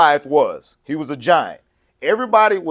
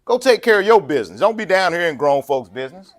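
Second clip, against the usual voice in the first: belittling; 4 semitones higher than usual. Retold or imitated. Preacher voicing Eliab scolding David, belittling and dismissive. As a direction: talk down to the little brother. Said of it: "your brother is belittling you".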